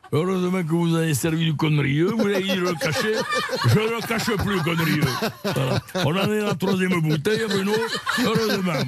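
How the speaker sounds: mock Sud-Ouest accent breaking into laughter; laughing southwestern accent. Actor answers the radio host in a laughing fake southwestern accent. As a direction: ham up a rugby man's twang while cracking up. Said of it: "là, je perds l'accent".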